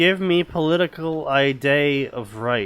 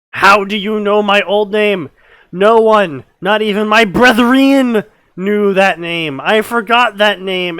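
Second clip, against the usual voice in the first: angry; 4 semitones higher, 4 dB louder than usual. Acted. Reading villain's angry dialogue aloud.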